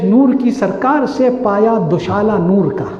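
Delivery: slow, chanted couplet recital; poetic recitation. Acted. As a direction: recite the verse slowly and lyrically. Recites Urdu couplet slowly.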